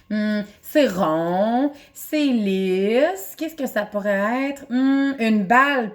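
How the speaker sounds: put-on slow, musing "hmm" as a child feeling a hidden object; lightly acted puzzled guesser, drawn out; pretend guessing. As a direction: play the kid groping in the mystery bag, slowly. Acts a child guessing by touch.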